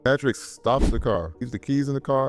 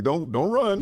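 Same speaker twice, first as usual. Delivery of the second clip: mock high puppy talk; 8 semitones higher, slower than usual. Patrick holding Bjorn like puppy.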